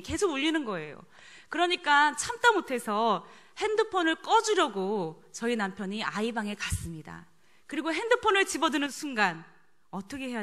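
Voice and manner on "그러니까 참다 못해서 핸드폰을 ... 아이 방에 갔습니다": usual speaking voice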